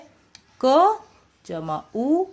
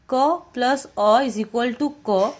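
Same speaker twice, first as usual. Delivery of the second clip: slow sounding out; much slower than usual. Shown as a demonstration. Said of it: "teacher sounding out".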